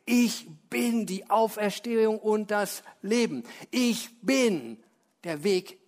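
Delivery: slow measured proclamation, each phrase falling; solemn proclamation. Acted. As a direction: proclaim each saying with weight. Proclaims seven I am sayings.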